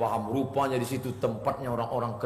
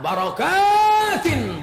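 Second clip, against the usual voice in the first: high, loud, drawn-out barakatin; shouted recitation; 9 dB louder, much slower than usual. Acted. Preacher reciting the verse to the crowd, shouting. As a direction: ring out the word barakatin.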